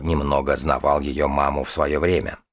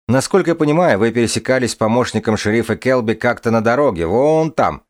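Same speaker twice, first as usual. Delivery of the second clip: higher, louder official tone; sheriff voice; 4 semitones higher, 4 dB louder than usual. Acted. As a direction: question him like a stern lawman. Sheriff questions the dragon.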